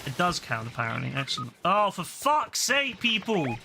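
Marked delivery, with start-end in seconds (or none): 1.6-3.6 high, slow, drawn-out "Oh, for fuck's sake" in disbelief; exasperated. Real, not acted. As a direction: stretch "fuck's" out, pitched up, fed up with teammates. Fed up with useless teammates.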